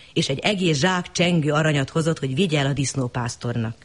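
usual speaking voice

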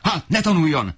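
no room for argument; enraged father. Acted. Father forbids son's schooling, high furious command. Father keeps raging at son.

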